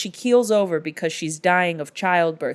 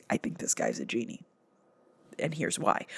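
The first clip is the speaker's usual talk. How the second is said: low aside; 8 semitones lower, 9 dB quieter than usual. Real, not acted. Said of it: "conspiratorial aside".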